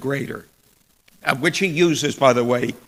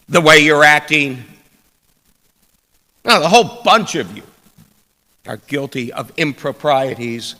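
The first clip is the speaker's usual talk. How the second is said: loud, stern rebuke of the whole congregation; an indignant official dressing down the crowd; scolding synagogue leader; 6 dB louder than usual. Acted. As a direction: scold them like a strict synagogue leader catching rule breakers. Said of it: "a taste of the reception Jesus received".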